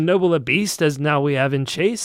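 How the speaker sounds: high, grand kingly reading; pompous royal voice. Acted. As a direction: read it like a pompous king. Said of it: "That's good stuff".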